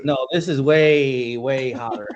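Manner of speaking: talking through a burning mouth; strained, drawn out from the heat; mouth burning from spicy food. Real, not acted. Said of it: "my whole mouth is burning".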